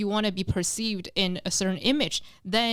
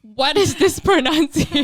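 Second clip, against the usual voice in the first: loud, high laughing exclamation; laughing disbelief; 7 semitones higher, 8 dB louder than usual. Retold or imitated. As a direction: blurt it out through laughter, amazed. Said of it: "I was like".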